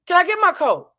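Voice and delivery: very high, loud mock plea; desperate plea. Desperate retold plea for her coat.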